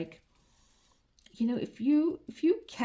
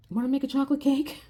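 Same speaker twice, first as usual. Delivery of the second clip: higher, louder and quick, teasing bait; coaxing sing-song offer; 7 semitones higher, 5 dB louder, faster than usual. Retold or imitated. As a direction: dangle the treat like a bribe to a toddler. Coaxing son with cake offer.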